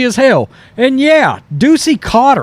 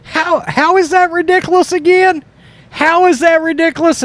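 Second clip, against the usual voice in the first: mocking impression; 8 semitones higher than usual. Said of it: "He's like".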